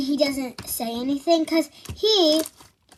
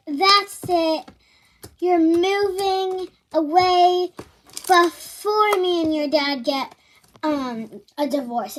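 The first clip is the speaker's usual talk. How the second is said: mock angry stepmom; 3 semitones higher than usual. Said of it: "she got so mad at me".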